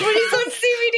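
high squeaky laughing rat voice; squeaky rat voice imitation. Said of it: "Is that your rat voice?".

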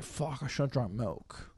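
soft, slow pitiful complaint; mock sick moan. Apprentice blaming milk for feeling sick, a soft pitiful moan. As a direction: lightly play the sorry apprentice.

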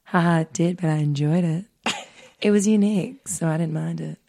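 lightly voiced smooth creep; understated sleazy smooth-jazz reading; creepy smooth jazz voice. Host voices the creepy date for her friend, lightly put-on jazz voice. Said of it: "ten times creepier by doing this voice".

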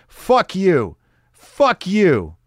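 high and loud, a sharp curse; angry retort. Retold or imitated. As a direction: spit it right at him. Drunk guy snaps at the teller.

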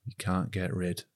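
broad northern English accent, laughing through it. Shown as a demonstration. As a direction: tagline in a playful northern accent. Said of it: "can you do that in a northern accent".

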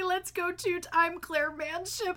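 mock sign-off.

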